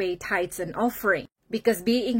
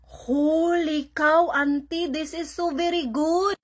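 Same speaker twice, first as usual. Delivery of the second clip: mock awe; 7 semitones higher than usual. Acted delight at tasting the chai.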